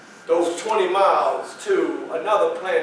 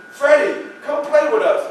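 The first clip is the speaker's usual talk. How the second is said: put-on higher, inviting young boy voice; brother calling; 7 semitones higher than usual. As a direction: call a little brother over.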